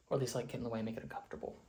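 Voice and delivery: winded from running upstairs; catching breath between words. Real, not acted. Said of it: "I'm out of breath 'cause I just ran upstairs".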